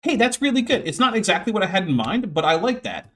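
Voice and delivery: encouraging. Retold or imitated. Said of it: "you could just be like".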